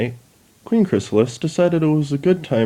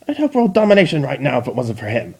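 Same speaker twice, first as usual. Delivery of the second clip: bitter rant; 3 semitones higher, faster than usual. Acted. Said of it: "screamed Chrysalis".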